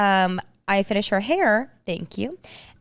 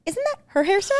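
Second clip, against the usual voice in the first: laughing while quoting; 11 semitones higher, faster than usual. Retold or imitated. People questioning, laughing.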